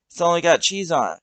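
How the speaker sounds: shout. Acted. Doug calling across the road to Bill, shouting. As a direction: call out to a friend far off. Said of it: "shouts Doug".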